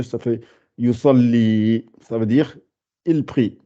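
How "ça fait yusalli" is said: yusalli drawn out, long a held; slow yusalli. Shown as a demonstration. Teacher reading the word to pupils, slow yusalli. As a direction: sound yusalli out syllable by syllable. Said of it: "avec le ya allongé".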